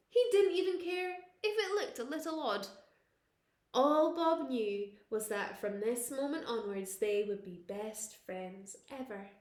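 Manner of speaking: plain reading voice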